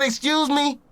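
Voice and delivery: high startled echo; jolted awake by the voice. Retold or imitated. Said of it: "as soon as the said".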